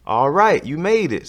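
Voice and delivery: excited greeting. Acted. Carl at the hoop greets Ron, excited and loud. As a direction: cheer as your friend arrives.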